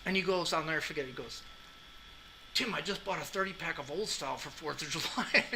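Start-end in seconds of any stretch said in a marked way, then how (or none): 2.6-5.4 quoting while laughing; fighting back laughter; laughing through quote. Retold or imitated. Retold Barry, laughing.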